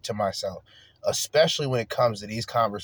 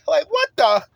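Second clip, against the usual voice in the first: high disbelief; 5 dB louder than usual. Real, not acted. Disbelief at crack remark.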